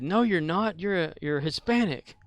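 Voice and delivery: imitating the family. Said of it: "And they said".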